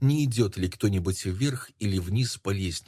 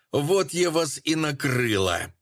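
high, slow coarse yell; rough yell; 6 semitones higher, slower than usual. A narrator's reading. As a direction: yell it out roughly, caught you. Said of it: "заорала она грубым голосом".

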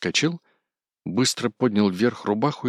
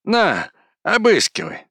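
much higher, louder taunt; defiant shout; 13 semitones higher, 7 dB louder than usual. A narrator's reading. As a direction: fling it at him defiantly. Кузьма defiant.

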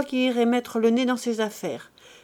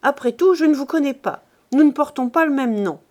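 angry threat; 3 semitones higher, 4 dB louder than usual. Acted. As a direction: throw him out with your voice. Pierre threatens his brother.

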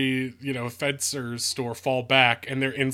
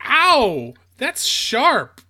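high, loud mock complaint; woman's yelp; 11 semitones higher, 7 dB louder, much slower than usual. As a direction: squeal it high like she's been pricked. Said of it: "and she's like".

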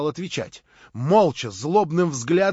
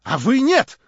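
several voices shouting; 3 semitones higher, 7 dB louder than usual. A narrator's reading. Compromised members accuse Stavrogin, shouting ever louder. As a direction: build to an indignant shout. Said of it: "закричало несколько голосов".

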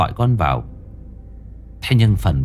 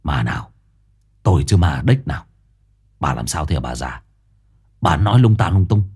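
lower, sullen grumble; resentful; 6 semitones lower, faster than usual. Acted. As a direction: brush her off rudely. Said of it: "giọng hậm hực".

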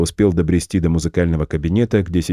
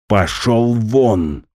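slow furious hiss; 4 semitones higher, much slower than usual. Acted. The director hisses at the boy to get out, trembling with rage. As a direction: drag it out, seething through the words. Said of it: "прошипел мужчина".

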